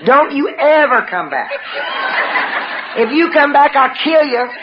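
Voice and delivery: high-pitched yell after him, drawn out at the end; retold screaming. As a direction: scream it at a departing husband, re-enacted. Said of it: "I'm screaming at him".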